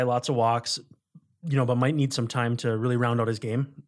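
talking through hiccups; words broken by hiccups. Real, not acted. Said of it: "I got the hiccups here".

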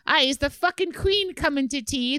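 amateur imitation of an Irish accent; bad Irish accent. Reading out the Irish coworker's teasing question, in a bad Irish accent. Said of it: "is that a bad Irish accent?".

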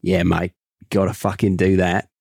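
put-on Aussie slipping in while aiming for Cockney; overdone Aussie accent; broad mock-Australian attempt. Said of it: "I've gone Aussie".

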